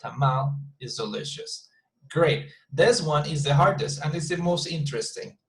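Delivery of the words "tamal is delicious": tamal stressed, then falling away; Betonung auf TAMAL. Shown as a demonstration. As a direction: lean on tamal first. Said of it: "put more emphasis on tamal".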